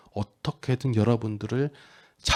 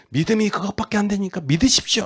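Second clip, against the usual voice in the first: quick, higher-pitched telling-off; mock rebuke; 8 semitones higher, 4 dB louder, faster than usual. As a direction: imitate a preacher chiding someone, fast. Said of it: "하면서 핀잔을 주고". (빠르고 높게 핀잔주듯)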